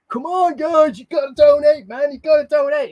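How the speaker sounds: loud, high, exasperated telethon plea; a rock-star fundraiser. Acted. Streamer imitating a TV fundraiser tantrum, loud hissy fit. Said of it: "a singer, basically having a hissy fit".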